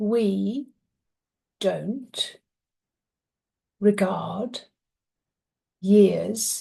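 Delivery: very slow, deliberate, drawn-out speech. A mother retelling her seven-year-old son answering as the tree, very, very slow speech. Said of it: "he started speaking very, very, very slowly".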